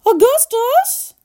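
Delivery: high, drawn-out motherly call; high, loud and stretched. A narrator's reading. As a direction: call the boy sharply from afar. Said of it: "called out Missus Gloop".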